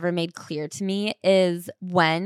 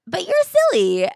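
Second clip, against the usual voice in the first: much higher, louder fond scolding; doting friend; 11 semitones higher, 5 dB louder than usual. Retold or imitated. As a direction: coo it like to a silly pet. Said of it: "I'm just like".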